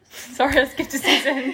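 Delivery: breathy giggled sorry under the breath; laughing whisper. Real, not acted. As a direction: whisper it through a laugh, a little sheepish. Laughing apology after a correction.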